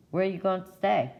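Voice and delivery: townsfolk's eager question. Acted. Townsfolk asking where she will stay, high and curious. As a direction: lift it like a curious neighbour. Townsfolk quizzing Zora in story.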